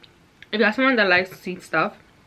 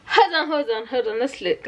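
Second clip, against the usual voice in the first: excited; 4 semitones higher than usual. Real, not acted. Excited about the shout out.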